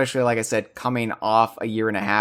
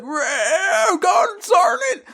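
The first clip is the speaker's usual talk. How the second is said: put-on old man voice; much slower than usual. Shown as a demonstration. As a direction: yell it like an old prospector. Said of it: "doing an old man voice".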